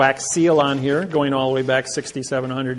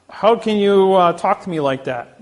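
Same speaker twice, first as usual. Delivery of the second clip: retelling the judge's outraged cry, pitched higher and louder; indignant disbelief; 5 semitones higher, 5 dB louder than usual. Retold or imitated. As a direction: blurt it as a shocked, offended question. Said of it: "this guy is like".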